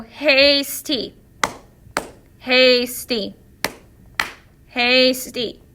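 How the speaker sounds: hasty said slowly, HAS-ty split in two beats; syllable clapping demo. Shown as a demonstration. Teacher to students, showing clapping out syllables slowly. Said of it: "So we'll say the word and we'll clap".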